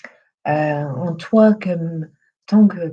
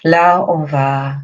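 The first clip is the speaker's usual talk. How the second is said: guided meditation. Acted. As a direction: lead them gently through breath and body, unhurried. Leads breathing and body relaxation.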